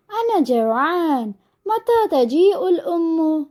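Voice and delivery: slow, lightly voiced chick's plea; hungry baby bird. Hungry chick asking when mother returns, slow and lightly plaintive. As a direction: stretch the words out like a waiting chick. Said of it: "എന്ന് പറയുകയാണ് പക്ഷിക്കുഞ്ഞ്".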